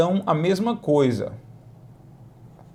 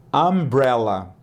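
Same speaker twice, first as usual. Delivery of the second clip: slow umbrella; 2 semitones lower, slower than usual. Shown as a demonstration. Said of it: "slow model take".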